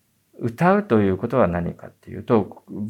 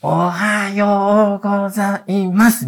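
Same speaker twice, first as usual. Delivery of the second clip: slow, high, syllable-by-syllable school reading; sounding out words; 11 semitones higher, 3 dB louder, much slower than usual. Retold or imitated. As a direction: read it out one syllable at a time like a schoolkid. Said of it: "一文字ずつ読むじゃないですか".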